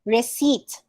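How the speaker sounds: "receipt" as ri-SEET; silent P. Shown as a demonstration. Teacher modelling the silent P, ri-seet. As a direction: say "receipt" with no P sound. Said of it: "silent P".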